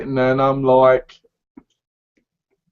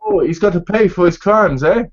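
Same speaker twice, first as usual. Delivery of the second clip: put-on Irish accent; 5 semitones higher, 4 dB louder than usual. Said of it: "fake Irish accent".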